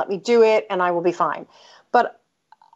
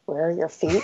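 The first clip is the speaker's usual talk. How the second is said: laughing; 4 semitones lower, 5 dB quieter than usual. Retold or imitated. Imagining husband's line, laughing.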